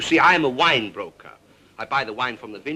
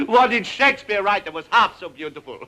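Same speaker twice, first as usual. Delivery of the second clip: normal talking voice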